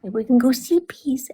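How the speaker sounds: hushed bedtime whisper, imitating him; soft, voiceless retold whisper. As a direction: whisper it as if settling a toddler. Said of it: "he's, like, whispering".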